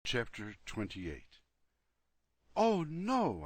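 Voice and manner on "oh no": louder, higher cry of dismay; shouted. A narrator's reading. Boy hearing Freddy may have eaten the popsicle, shouting in alarm. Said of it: "I shouted".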